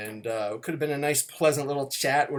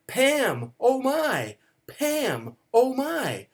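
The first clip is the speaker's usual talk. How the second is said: higher, louder mock cries of a name; retold sleep-yelling; 11 semitones higher, 5 dB louder, much slower than usual. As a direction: ham up a dreamer crying out in his sleep. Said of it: "You were screaming".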